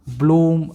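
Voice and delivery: ब्लूम with the oo stretched; long oo sound. Shown as a demonstration. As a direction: draw out the oo in ब्लूम. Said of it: "double ओ का sound देखो ज़्यादा आ रहा है".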